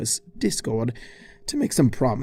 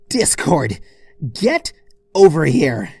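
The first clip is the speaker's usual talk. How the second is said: loud yell across a field; calling out; 3 semitones higher, 6 dB louder than usual. Acted. Twilight yelling to Discord across the meadow, loud call. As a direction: shout him over.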